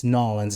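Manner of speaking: "Nolans" said as one word, NAW-linz; local New Orleans pronunciation. Retold or imitated. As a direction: demonstrate "Nolans" as a single run-together word. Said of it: "it's just one".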